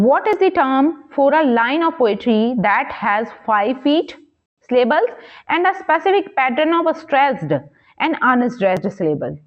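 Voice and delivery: slow, measured question read-out. Acted. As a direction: read the exam question out slowly, word by word. Reads quiz question aloud.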